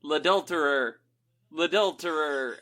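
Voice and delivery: drawn-out playful shout; mock yell. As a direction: call it out like a public accusation. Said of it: "I would just yell".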